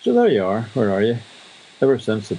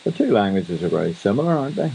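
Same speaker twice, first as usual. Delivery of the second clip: quoting his phrase. Retold or imitated. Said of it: "I eventually coined the phrase".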